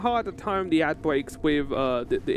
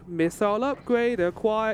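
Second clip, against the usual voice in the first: announcer voice; 5 semitones higher, slower than usual. Retold or imitated. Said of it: "I kept saying".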